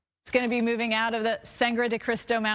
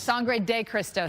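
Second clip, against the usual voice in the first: "Sangre de Cristo" slowly, syllable by syllable; slow, careful; slower than usual. Real, not acted. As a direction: sound out "Sangre de Cristo" carefully to get it right. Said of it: "I gotta do it slow".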